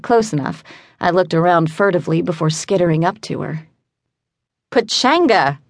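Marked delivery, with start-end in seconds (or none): 4.7-5.6 a raised, higher call of Pachanga; relieved traveller blurting the code word, mild shout; mild mock shout. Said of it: "I shouted".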